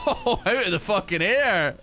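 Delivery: loud, high-pitched outburst; exclaiming. Real, not acted. Streamer reacting to a game moment, exclaiming. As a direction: yell it in sudden reaction.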